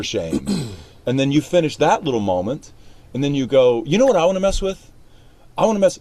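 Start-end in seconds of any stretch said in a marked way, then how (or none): 3.9-6.0 "You know what I wanna mess with" pitched up high, as a fresh idea; spring "You know what" on the listener, high and newly discovered; sudden new thought. Shown as a demonstration. Coach shows actor an unplanned line, "You know what I wanna mess with" as a sudden high new thought. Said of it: "like, that's a new thing".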